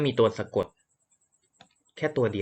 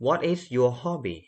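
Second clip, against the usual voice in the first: very slow What is your hobby; slow model question; 4 semitones higher, much slower than usual. Shown as a demonstration. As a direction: read it word by word slowly. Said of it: "อันนี้ A เนาะ". (ครูอ่านคำถามช้าๆ ให้นักเรียนฟัง)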